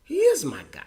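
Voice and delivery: breathless whisper through tears; barely voiced, choked whisper; tearful whisper. Real, not acted. Speaking of his late dad in a choked whisper.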